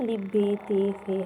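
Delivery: الف، بے، تے، سے with Urdu "ay" letter endings; Urdu pronunciation. Shown as a demonstration. Teacher mimicking the old habit, Urdu-style الف، بے، تے، سے. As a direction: recite الف، بے، تے، سے loudly the Urdu way. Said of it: "ہم لوگ ایسے پڑھتے تھے".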